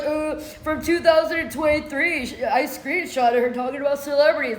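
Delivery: lightly voiced dopey imitation; mock dumb man. Accuser citing old screenshots to the judge, mock dumb. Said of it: "'Cause he was so dumb".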